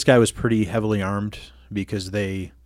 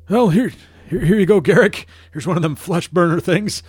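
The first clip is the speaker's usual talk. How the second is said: high, bright-voiced jailer character; high NPC voice; 8 semitones higher, 4 dB louder than usual. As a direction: voice a chirpy droid handler. GM voicing NPC handing over device.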